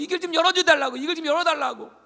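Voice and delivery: high, loud insistent pleas; pleading demand. Retold or imitated. Believer loudly begging God to open the way. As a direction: beg loudly for the way opening.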